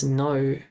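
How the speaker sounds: "no" ending in the name of the letter O; correct "no". Shown as a demonstration. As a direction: say "no" with a gliding o, no r. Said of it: "you say the letter O".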